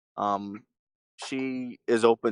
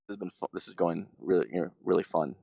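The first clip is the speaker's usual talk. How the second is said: low-key, deadpan sarcasm; understated sarcastic grumble, pitched low; 5 semitones lower, faster than usual. Real, not acted. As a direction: say it dryly, meaning the opposite. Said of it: "I'm being sarcastic".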